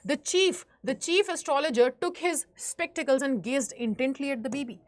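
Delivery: slow, deliberate read-aloud; teacher reading a story passage slowly to the class. Acted. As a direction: read the book line slowly, word by word. Reads English story text aloud.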